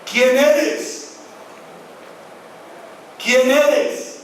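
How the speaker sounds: clamor angustiado. Acted. Pablo clama desde el suelo.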